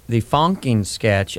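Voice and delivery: Fonkin said slow and clear, FONK-in; spelled-out name. Shown as a demonstration. Explaining the sketch name to the host, Fonkin said slowly. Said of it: "F O N K I N".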